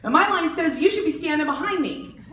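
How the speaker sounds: high, loud mocking sympathy; sarcastic fury. The speaker sarcastically scolding the line-cutter, high and loud. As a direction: drip fake pity, then lay down the law. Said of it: "I'm all".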